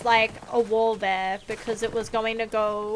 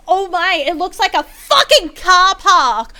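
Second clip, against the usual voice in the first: much higher, louder mock disgust; mocking critic; 8 semitones higher, 8 dB louder than usual. Imitating friends mocking her base as a prison, mock disgust. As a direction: sneer at the base like a snobby friend. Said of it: "it was".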